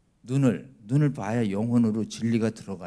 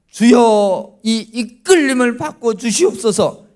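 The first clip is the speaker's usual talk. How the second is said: fervent prayer; 9 semitones higher, 9 dB louder, slower than usual. Pretend. Mock fervent prayer of teen.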